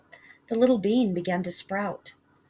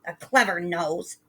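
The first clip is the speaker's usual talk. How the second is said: hissed mock. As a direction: sneer back "A clever nose". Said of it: "his mother hissed".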